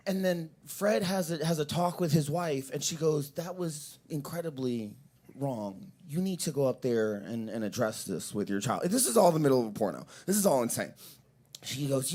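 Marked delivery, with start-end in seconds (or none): 3.3-8.8 lower, softer wifely admonishment; quietly, seriously take him to task; grave reproach. Retold or imitated. Wife tells Fred to address it, grave reproach. Wife scolds husband in retold scene.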